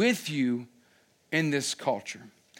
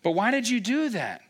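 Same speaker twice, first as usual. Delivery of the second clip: firm parent question; 6 semitones higher than usual. Retold or imitated. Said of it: "I'm not yelling at them".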